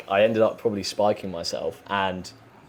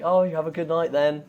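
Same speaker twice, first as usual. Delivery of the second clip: mum's teasing voice; 8 semitones higher than usual. Retold or imitated. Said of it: "my mum's quite funny".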